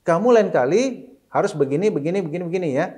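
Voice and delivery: nada ayah mengajar, lebih tinggi; ayah mendidik. Retold or imitated. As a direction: sedikit menirukan ayah yang menasihati anak. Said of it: "intonasi beda". (ayah mengajari anak, nada tinggi tegas)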